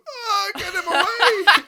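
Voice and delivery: high, slow, wailing mock panic; panicked plea. Mocking the friend's panicked cry to get the guy away, high wail. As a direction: wail it like a terrified friend, laughing through it. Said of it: "you just go".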